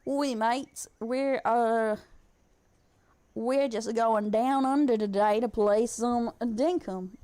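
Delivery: slow, hammed-up Australian accent; badly faked Aussie accent, drawn out; put-on Australian accent. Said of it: "Shouldn't you have an Australian accent?".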